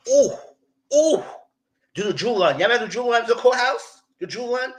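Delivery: high, excited, teasing; excited recall. Real, not acted. Excited, reminding viewers of the Drew run. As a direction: squeal it with glee.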